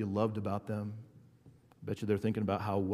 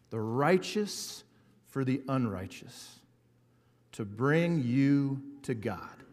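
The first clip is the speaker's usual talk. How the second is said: slow, weighty scripture reading; 3 dB louder, slower than usual. Acted. Pastor reading First Peter to the congregation, slow and weighty. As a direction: let each phrase land slowly.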